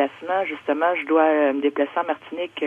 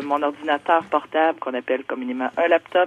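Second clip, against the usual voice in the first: over a landline phone. Real, not acted. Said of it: "on va aller au téléphone".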